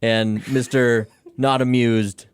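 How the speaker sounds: loud announcer intro with a laugh; yelled introduction; loud sharp voice. Acted. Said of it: "why are you yelling at us?".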